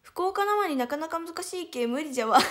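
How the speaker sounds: lightly put-on Hiroshima dialect, half laughing. Shown as a demonstration. Idol answering fans about Fukuoka accent, in Hiroshima dialect. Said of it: "それを広島弁っていう".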